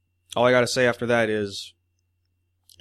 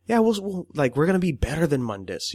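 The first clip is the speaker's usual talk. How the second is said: smug villain; 6 semitones higher than usual. Retold or imitated. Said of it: "And he was just like".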